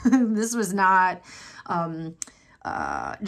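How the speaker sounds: slow, laughing through the words. Real, not acted. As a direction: laugh while saying it. Laughs mid-sentence.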